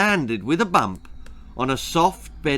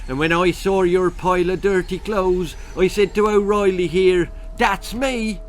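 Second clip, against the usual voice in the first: louder, higher Irish leprechaun, eager; excited Irish leprechaun; 6 semitones higher, 5 dB louder than usual. A narrator's reading. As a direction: tell it like a delighted leprechaun. Leprechaun explains.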